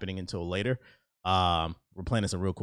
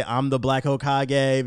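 slow drawn-out intro; 3 semitones higher, 5 dB louder, much slower than usual. Shown as a demonstration. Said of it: "and then I say".

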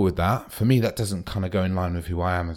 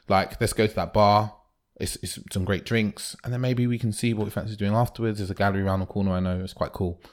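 confident leading; 2 semitones higher than usual. Retold or imitated. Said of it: "And that's just leading".

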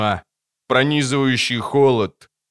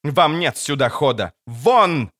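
commanding shout; 3 semitones higher than usual. Acted. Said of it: "крикнула она снова".

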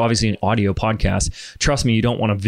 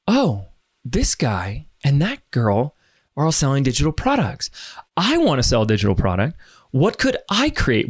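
naive wondering; 2 semitones higher than usual. Retold or imitated. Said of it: "one of the worst questions you could ask".

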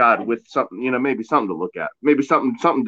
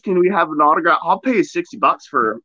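higher-pitched, hammed-up Pittsburgh fan voice; Pittsburgh accent; 5 semitones higher than usual. Imitating Pittsburgh fans asking for an autograph, mock Pittsburgh accent. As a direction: put on a broad Pittsburgher accent, high-pitched and excited. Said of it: "Did you go Cali accent at the end?".

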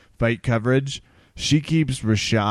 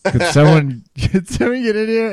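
mock anchor pleading; 4 semitones higher, 5 dB louder than usual. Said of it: "'Cause it's like".

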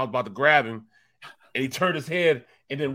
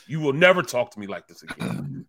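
retold threat; 4 dB louder than usual. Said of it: "now I'm mad".

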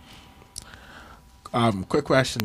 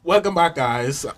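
podcast intro; 5 semitones higher than usual. Acted. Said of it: "this is how we're supposed to start the podcast".

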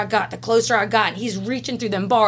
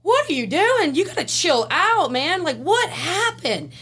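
much higher, coaxing mock officer voice; hammed-up high voice of a worried coworker; imitating the officer; 9 semitones higher than usual. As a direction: play the guard telling her to chill out. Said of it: "and he's like".

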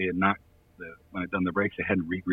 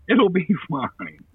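slow, higher, carefree shrug of a line; shrugging it off; 10 semitones higher, 5 dB louder, slower than usual. Retold or imitated. Drunk Jackie shrugging at the narrator: slow, higher, unbothered. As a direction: brush off the whole problem with a lazy shrug. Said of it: "shrugs and goes".

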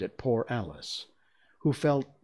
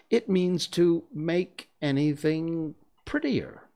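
high, slow, tentative definition; doubtful; 10 semitones higher, 5 dB louder, slower than usual. A narrator's reading. Alice explaining beautify to the Gryphon, doubtful. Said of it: "Alice said doubtedly".

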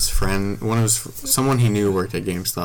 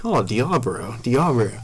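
lightly imitated Asian accent on "Diablo"; mock Asian accent. Brother joking at GameStop, mock Asian accent. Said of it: "making fun of Asian people".

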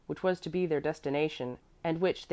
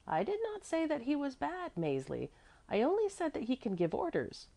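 higher, softer correction; correcting; 10 semitones higher, 5 dB quieter than usual. A narrator's reading. Apollonie corrects Mäzli about the baron, softly insistent. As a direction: gently set the child straight. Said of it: "Apollonie corrected".

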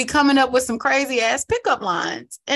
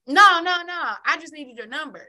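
high, hurried denial; mock guy backpedaling; 6 semitones higher than usual. Host imitating TikTok guy denying he is gay, high then hushed. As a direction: protest quickly, then brush it off. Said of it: "he was like".

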